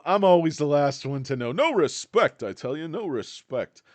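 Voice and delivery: loud, hammed-up no respect gripe; comic complaint. Vlogger joking about his delayed meeting, loud hammed-up gripe. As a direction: play the put-upon comedian. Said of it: "Rodney Dangerfield catchphrase".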